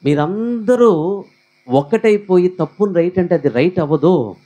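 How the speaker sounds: mild mock telling-off of the crowd; retold firm scolding. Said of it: "నేను గట్టిగా మాట్లాడాను". (గుంపుని గట్టిగా మందలిస్తూ)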